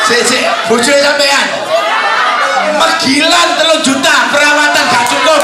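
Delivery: loud scoffing outburst; mock shout. Speaker scoffs at wives who say three million is not enough, loudly. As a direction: shout the complaint like it's absurd. Mocking wives' spending complaint.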